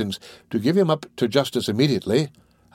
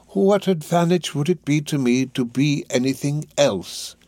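put-on slow, higher-pitched sly old schemer; lightly voiced Fagin; 5 semitones higher than usual. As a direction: draw it out as a lightly played Fagin.

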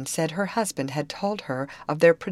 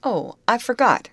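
raised, higher call; 8 semitones higher, 6 dB louder than usual. A narrator's reading. Contractor calls after the young ladies, calling out. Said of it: "called the contractor".

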